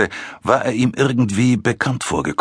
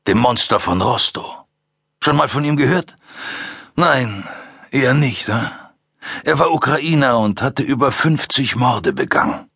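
gelassen, mit einem Hauch Belustigung; ruhig, leicht belustigt. Acted. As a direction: ein ruhiger Killer, der sich amüsiert. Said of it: "mit ruhiger, ein wenig belustigter Stimme". (ruhige, leicht amüsierte Stimme)

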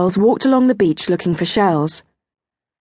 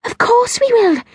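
put-on high, eager girl's promise; eager, high-pitched assurance; earnest promise. A narrator's reading. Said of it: "Kirsty promised".

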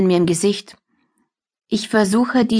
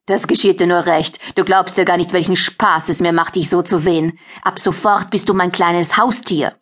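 gloating mockery. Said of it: "Doch Sophie lacht mich nur aus".

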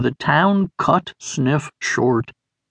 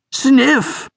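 high anguished scream of a name; 10 semitones higher than usual. A narrator's reading. Beamer screaming over his friend's body. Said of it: "Beamer screamed".

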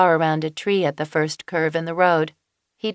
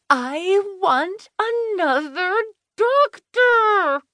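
high, wailing plea for another doctor; wailing Finley; much slower than usual. A narrator's reading. Laboring patient wails at Kelsey, high and desperate. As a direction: wail it like a woman in labour. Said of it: "she wailed".

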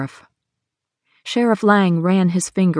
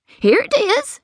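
put-on raised, anxious older woman telling her troubles; Hattie's worried voice; slower than usual. Hattie explains to the sheriff how she lost money, anxious. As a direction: plead your story to the sheriff. Hattie hands over receipt.

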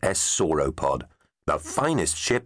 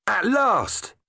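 cheering. A narrator's reading. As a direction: cheer out like the wait is finally over. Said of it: "cheered Tegs".

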